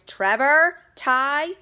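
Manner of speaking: high, loud alarmed mother's call; Hopper's mom calling up in alarm; cries out. Acted. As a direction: cry out to the boys about the vase. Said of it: "she cries".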